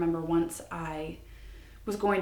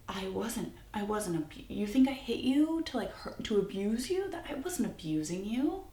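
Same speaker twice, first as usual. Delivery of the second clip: shocked; 4 semitones higher than usual. Retold or imitated. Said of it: "he looked at me shocked".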